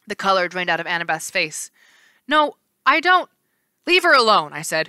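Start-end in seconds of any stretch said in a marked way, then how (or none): 2.3-3.3 denial. Acted. Annabeth denies. 3.9-4.5 protective. Acted. Percy defends her.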